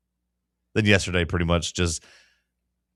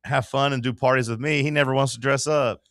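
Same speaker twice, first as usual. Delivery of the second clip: gushing salesgirl; 4 semitones higher than usual. Retold or imitated. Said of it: "they're like".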